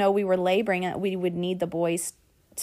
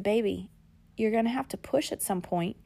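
compassionate; 6 dB quieter than usual. Retold or imitated. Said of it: "he was so compassionate".

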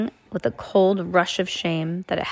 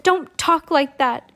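put-on girl's voice, pitched up; high girl voice; 8 semitones higher, 4 dB louder than usual. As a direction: voice Violet high and firm. Violet pleads.

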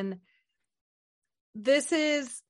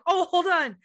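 higher, louder hide-and-seek voice; mock playful urgency; 6 semitones higher, 4 dB louder than usual. Killer on the phone to Cindy, mock flustered. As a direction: act out a flustered hider calling instructions.

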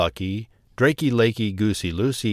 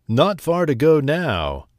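sly fox; 4 semitones higher, 5 dB louder than usual. Acted. Fox leading birds to den.

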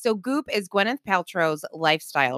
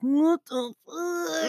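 shocked; 8 semitones higher, 4 dB quieter, much slower than usual. Retold or imitated. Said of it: "I was like".

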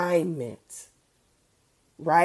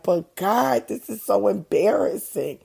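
put-on higher, pleading whiny child voice; whiny kid; 5 semitones higher, 3 dB louder than usual. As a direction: whine it like a kid begging. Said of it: "like a whiny kid".

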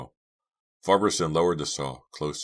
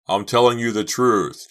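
high, loud desperate plea; frantic loud pleading; pleading cry; 8 semitones higher, 10 dB louder than usual. Acted. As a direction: plead to be believed. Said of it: "Chuck insisted, pleading".

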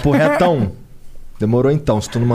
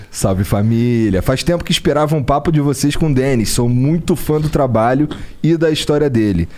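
reading a message. Acted. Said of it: "o Pedro Matos D J mandou aqui".

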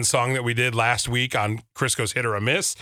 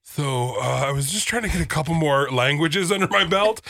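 casual mock inquiry, pitched up; patient on phone; 5 semitones higher than usual. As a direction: imitate a co-host sweetly asking her doctor. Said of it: "Des calling her doctor".

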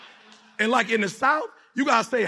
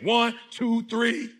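raised, forceful count for the crowd; rallying count-in; much slower than usual. Real, not acted. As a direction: count them in like you mean it.

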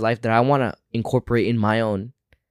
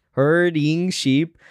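laughing; 4 semitones higher, much slower than usual. Real, not acted. Laughing at her own slip.

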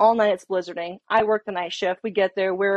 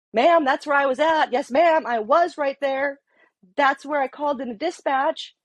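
higher, emphatic self-defense; retold insistence; 5 semitones higher than usual. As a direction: insist you were right, pitched up. Proving her point to the sergeant.

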